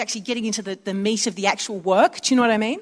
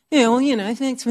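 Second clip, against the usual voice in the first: mock sarcasm. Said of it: "you visit people".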